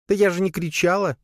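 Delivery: high spider voice, defensive; squeaky spider justifying herself; making excuses. Acted. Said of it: "начала оправдываться паучиха". (высоким голоском, оправдываясь)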